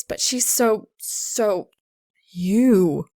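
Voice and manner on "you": a single loud, stressed You; Soul insisting it's her; emphatic. A narrator's reading. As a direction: pin her with the word. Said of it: "It's emphatic".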